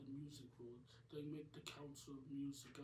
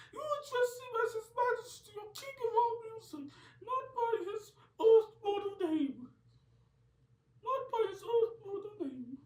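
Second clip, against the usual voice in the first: much higher, much louder furious shriek; a pop star shouting in anger; 17 dB louder than usual. Acted. A pop star orders the heroes to respect his king, furious shriek. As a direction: scream it down at them, outraged. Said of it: "stands up in fear and anger and shouts".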